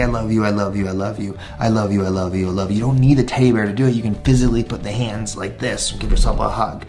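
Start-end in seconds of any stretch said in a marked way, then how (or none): 0.0-2.8 lower, tender repeated words; gentle self-soothing. Shown as a demonstration. Teacher showing adults how to soothe themselves, tender. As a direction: hug yourself and say it gently. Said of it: "we hold and we say".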